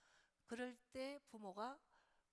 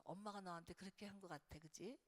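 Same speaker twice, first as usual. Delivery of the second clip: gentle empathy. Shown as a demonstration. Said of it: "이렇게만 해주세요".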